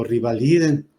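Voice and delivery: "revaliden" said with an i, as "rivaliden"; mispronounced revaliden. Retold or imitated. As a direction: turn the first e of "revaliden" into i: "rivaliden". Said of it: "eso es de rival". («revaliden» mal dicho, con i: «rivaliden»)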